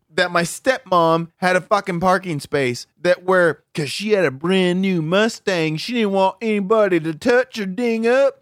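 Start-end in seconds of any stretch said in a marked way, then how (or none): 5.8-8.4 irritated, slightly pitched-up rant. Real, not acted. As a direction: let annoyance creep into the retelling. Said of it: "is that how your stepmom talks".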